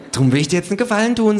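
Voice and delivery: high, fast kangaroo. A narrator's reading. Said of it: "sagt das Känguru".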